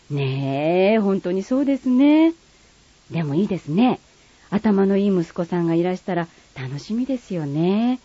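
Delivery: lightly voiced refined lady, polite standard speech; polite standard Japanese. Friend replying politely in light standard Japanese. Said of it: "標準語と鹿児島弁".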